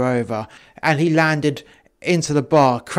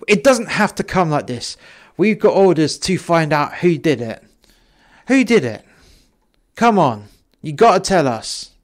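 mildly raised, insistent plea; urgent appeal; 2 semitones higher than usual. Acted. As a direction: urge them to give up the name. Next cop urges the room.

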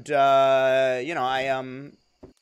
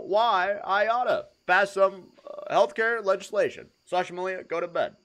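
Obama impression; 5 semitones higher than usual. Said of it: "Do an impression of Obama".

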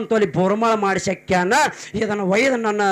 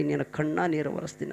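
much softer, lower, hushed; soft echo; 4 semitones lower, 11 dB quieter than usual. A narrator's reading. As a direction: let the promise fall to a hush. Teller echoes mother's promise softly. (ಮೆಲ್ಲನೆ ಪಿಸುಗುಡುವ ಧ್ವನಿ)

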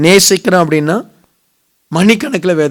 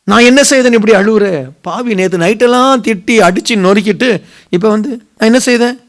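higher-pitched acted quarrel; mock indignant scolding; 3 semitones higher than usual. Preacher acts out a quarrel after last night's beating, mock indignant. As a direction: imitate an exasperated scolding, lightly hammed-up.

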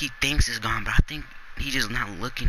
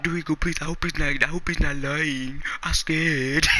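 imitating scared friend; 4 semitones higher than usual. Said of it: "This man Jordan said".

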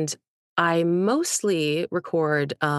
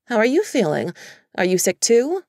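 concerned mom; 5 semitones higher, 6 dB louder than usual. A narrator's reading. Mom asking on phone.

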